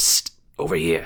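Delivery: low, raspy, rasping call. A narrator reading a voice calling from a cluttered corner, raspy voice. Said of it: "a raspy voice says".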